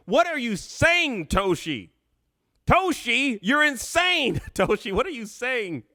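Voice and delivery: high, drawn-out disbelief; incredulous. Real, not acted. Host reacts to Toshi's crazy prediction, incredulous. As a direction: scold them in amused disbelief. Mock outrage at chatter's wild prediction.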